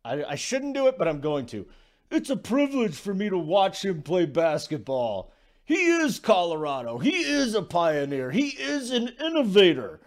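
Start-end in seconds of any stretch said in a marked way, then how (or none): 2.1-5.3 lightly voiced gushing Walton; hammed-up Bill Walton praise; Bill Walton impression. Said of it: "my Bill Walton impersonation". 5.6-10.0 gushing mock Walton, rising on innovator; over-the-top Walton tribute; Bill Walton impression. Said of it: "my Bill Walton impersonation".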